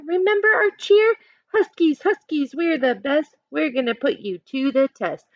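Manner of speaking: rally the team with the cheer; cheering shout. Acted. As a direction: Huskies cheer called out high. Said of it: "The whole team shouted".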